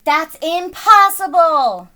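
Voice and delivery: loud, high denial shout; Luke shouts. A narrator's reading. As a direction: shout it in shock. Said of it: "shouts Luke".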